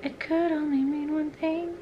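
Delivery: high, soft mock trailer narrator; dramatic trailer voice. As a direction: play it like an epic trailer. Dramatic movie-trailer line.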